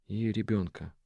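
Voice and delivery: тише, вполголоса; понизь голос на этом; пониженный голос. A narrator's reading. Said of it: "он понизил голос". (Араф о ребёнке: тише, вполголоса)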